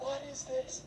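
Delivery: high, slow mock-baffled mother; a hammed-up mom reading her son's search history; outraged mom. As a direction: read the title out in disbelief. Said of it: "she's like".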